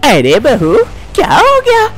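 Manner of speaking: put-on a nagging elderly amma, worried; fussy old mother-in-law. Mother-in-law answers the bahu's calls, fussing.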